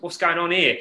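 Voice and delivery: lightly put-on East London accent; a touch of East London in the voice. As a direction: imitate a curious East London passer-by. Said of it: "in some kind of East London accent".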